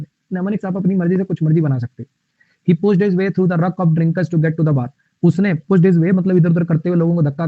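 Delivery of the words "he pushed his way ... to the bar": very slow, every word spaced for the class; slow dictation reading. Shown as a demonstration. Teacher reads the sentence aloud to class, very slowly. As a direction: spell it out slowly so students can follow.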